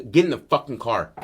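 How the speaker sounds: acted father losing patience; cursing father. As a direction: cut in with a cussing command. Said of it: "his dad doesn't cuss at him like that".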